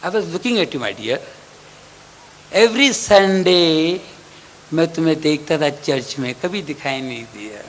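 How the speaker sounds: calmly mock the latecomer; God calmly teasing the old man who never came to church; God's reply. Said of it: "God बोलेगा".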